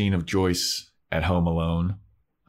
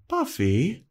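calling out; 9 semitones higher than usual. Retold or imitated. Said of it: "and she goes".

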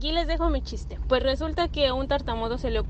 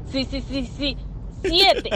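stuttering soldier; 2 semitones higher, slower than usual. Retold or imitated. Stuttering corporal answers in joke.

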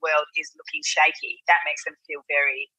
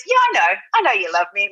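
son's voice; 3 dB louder than usual. Retold or imitated. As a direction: lightly voice her young son's answer. Son answering mother, voiced.

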